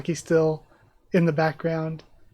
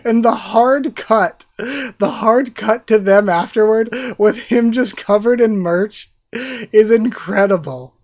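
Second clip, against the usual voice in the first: excited gushing; 3 semitones higher, 5 dB louder than usual. Real, not acted. Gushing over the manga.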